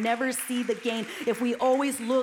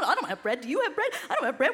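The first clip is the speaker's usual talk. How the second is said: mock panicked disciples; 3 dB louder, much faster than usual.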